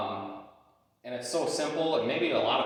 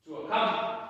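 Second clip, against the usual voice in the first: called out loud and high; firm loud dog recall; loud recall command; 6 semitones higher, 4 dB louder than usual. Real, not acted. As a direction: call the dog across the garage. Calling dog across garage.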